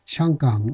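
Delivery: 샹강 as Mandarin Xianggang; Beijing pronunciation. Shown as a demonstration. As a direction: say 샹강 the Beijing way, "shyang-gang". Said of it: "북경식 발음은". (북경식 발음으로 샹강)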